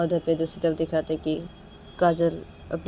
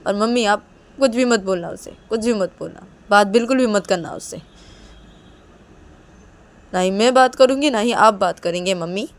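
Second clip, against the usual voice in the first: raised, heated pleading; hurt, insistent daughter; 4 semitones higher, 10 dB louder than usual. Acted. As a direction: lay down the law to mother in a louder, higher voice. Daughter insists, still quarrelling. (आहत बेटी की ऊँची, ज़िद भरी आवाज़)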